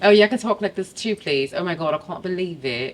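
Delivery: playful British accent, lightly put on; a quick British accent to show she can switch. Shown as a demonstration. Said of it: "You did the U K accent".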